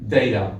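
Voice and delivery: "Data" said DAY-da; variant pronunciation. Shown as a demonstration. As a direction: say "Data" with a long ay and a softened t. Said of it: "You can say data".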